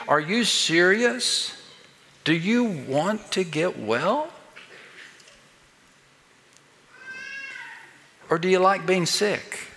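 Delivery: not a tender shepherd but a blunt skeptic; incredulous challenge. Acted. Jesus challenging the sick man, incredulous and blunt. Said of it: "the tone of Christ was not that of a tender shepherd".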